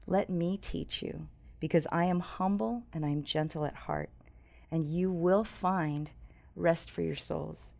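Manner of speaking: gently reading Christ's invitation to the congregation; scripture reading. Acted.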